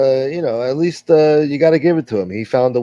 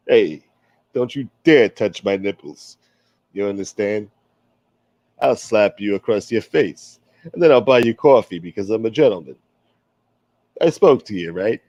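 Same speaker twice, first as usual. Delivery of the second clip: put-on a light, lower old-school wise guy voice; wise guy accent; 4 semitones lower than usual. Old gangster defending his name to the stream, lightly voiced. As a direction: play the smooth-talking tough guy, lightly. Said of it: "I used to do this accent a lot better".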